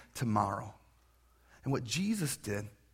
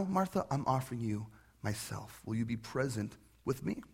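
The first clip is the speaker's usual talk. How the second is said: gentle. Retold or imitated. Jesus gently inviting Martha to be present with him.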